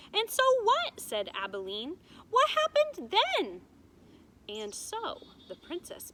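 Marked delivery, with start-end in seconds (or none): 0.1-3.7 put-on much higher, louder eager little girl; impatient child. A narrator's reading. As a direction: demand the rest like an impatient kid. Impatient child interrupts story.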